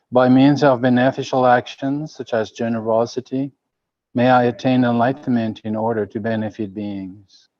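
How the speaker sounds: measured group prayer, phrase by phrase; prayer recitation. Real, not acted. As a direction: recite it evenly, leaning into each phrase opening. Leads a recited refuge prayer.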